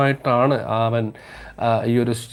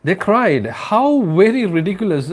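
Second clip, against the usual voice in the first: mocking; 8 semitones higher, 4 dB louder, much slower than usual. Creatures mocking the student.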